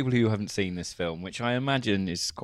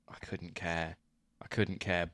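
fading out; 5 semitones lower, 9 dB quieter, slower than usual. Real, not acted. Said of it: "dismissive trailing off".

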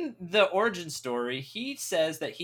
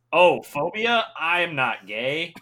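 mocking dumb guy; 6 dB louder, slower than usual. Mocking the character's reaction.

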